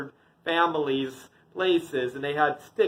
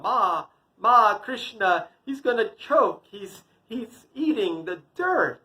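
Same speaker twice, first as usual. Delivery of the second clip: higher, urgent call to Ma; alarmed tattling child; 6 semitones higher, 4 dB louder than usual. Acted. Brother calls mother about toddler eating dirt, urgent alarm.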